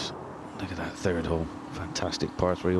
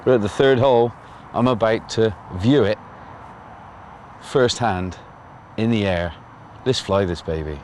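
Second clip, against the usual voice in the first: shouting over noise; 2 semitones higher, 4 dB louder than usual. Real, not acted. Shouting over flying drone noise.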